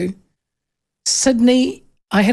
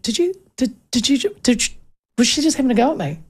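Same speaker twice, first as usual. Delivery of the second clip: stunned; 3 semitones higher, faster than usual. Retold or imitated. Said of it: "I just went".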